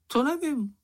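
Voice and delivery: high, squeaky little animal voice; Sniff's voice. A narrator's reading. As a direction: pitch it up as the small Sniff. (vysoký pištivý hlásek Čenicha)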